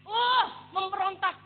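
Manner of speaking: drawn-out outburst of protest; retold rebellion. Worker told to just pray, rebelling.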